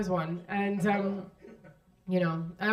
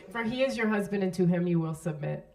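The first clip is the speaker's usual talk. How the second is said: solemn reading. Shown as a demonstration. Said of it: "I'm gonna read them to you".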